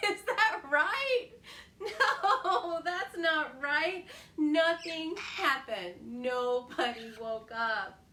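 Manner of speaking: slow, laughing correction; amused teasing. Real, not acted. Laughing at mistake.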